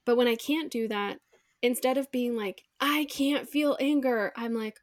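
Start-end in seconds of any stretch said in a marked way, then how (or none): 2.8-4.3 slow, drawn-out self-denial; slowly enacted inner protest; mock refusal. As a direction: draw the words out slowly, acting out denial. Acting out refusing her anger.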